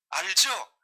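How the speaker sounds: usual speaking voice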